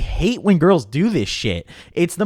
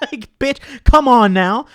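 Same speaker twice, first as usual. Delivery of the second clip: laughing exasperation; 7 semitones higher, 8 dB louder, slower than usual. Real, not acted. Laughing at own comparison.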